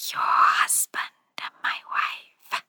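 a cold, mocking whisper, slow and breathy; rumbling whisper. A narrator's reading. Spirit mocking the widow, a menacing whisper. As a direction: whisper it like a thing hidden in the dark. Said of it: "a whisper that rumbled".

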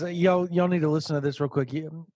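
talking through hiccups. Real, not acted. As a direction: hiccups breaking the words. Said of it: "sorry, I got hiccups".

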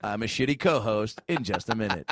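lightly voiced smooth radio host sign-off; a hint of a countdown DJ tossing to break; Casey Kasem impression. Podcast host tossing to break, light Casey Kasem radio voice. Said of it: "Casey Kasem impression".

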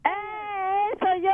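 excited. Shown as a demonstration. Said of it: "hazlo otra vez".

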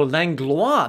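a careful French "Langlois", L pronounced. Shown as a demonstration. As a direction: say "Langlois" with the L sounded. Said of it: "There's an L in there".

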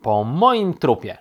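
loud, slow refusal; forceful, drawn-out protest; defiant shout. A narrator's reading. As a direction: shout it down firmly. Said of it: "krzyknął królik".

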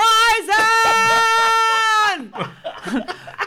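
loud laugh while shouting. Retold or imitated. Laughing mid-yell.

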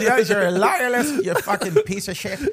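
put-on laughing abuse in a Loyalist accent; mock Loyalist accent. Host ribbing co-host for switching, mock Loyalist accent. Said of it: "I just switched over to Loyalist".

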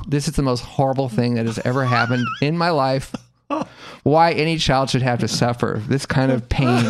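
hammed-up childish anguish; mock tearful outburst. Boy who missed his hero, mock tearful. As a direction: melodramatic lament, as if in tears. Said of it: "I just break into tears".

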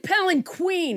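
palanquin said with a "kw", ending like "queen"; mispronounced palanquin. Shown as a demonstration. Host owning up to a mistake, palanquin ending in "queen". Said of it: "I think I said palanquin".

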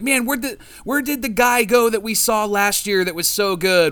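high, exasperated disbelief. Retold or imitated. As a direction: lament the vanished good pitcher. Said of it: "We're like".

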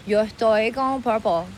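put-on slow Miami-accented Spanish; acento de Miami. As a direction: drag it out with a Miami Spanglish accent. (español lento con acento de Miami)

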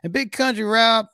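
lightly played call-in host, loud opening, dropping at the end; Clyde Blackstone. Host asking Big Country caller for his question, lightly voiced persona. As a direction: invite the question as a showy host character.

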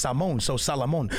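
"Salmon" as sah-mon, then "Salomon" with the L; Portuguese then English. Shown as a demonstration. Explaining why, "Salmon" then "Salomon" in turn. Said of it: "'cause I'm Portuguese".

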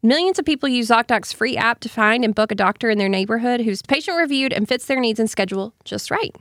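steady sponsor pitch; ad read. Acted. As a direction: read the sponsor copy smoothly.

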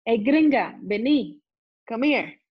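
loud call across the street. Retold or imitated. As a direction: shout to the foreigner to come over. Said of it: "me grita".

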